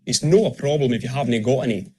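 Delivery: Scottish dialect, "no" for not, "havnae" for haven't; Scottish accent. Shown as a demonstration. Coach repeating the dialect phrase, Scottish accent. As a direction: say it in general Scottish. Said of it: "which will show you a few more features".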